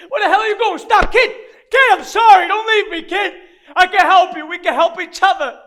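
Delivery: loud, high pleading shouts; desperate calling out. Acted. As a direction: shout after someone running away. Calls after fleeing kid.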